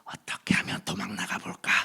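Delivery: whispered, secret wish to slip away; whispered inner thought. Retold or imitated. Preacher recalling his secret wish, whispered. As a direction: breathe it as a hidden thought. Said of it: "십 년을 있으면서".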